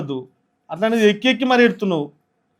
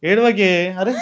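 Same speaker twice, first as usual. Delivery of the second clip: pleading; 4 dB louder, much slower than usual. Acted. Husband urging wife stop crying.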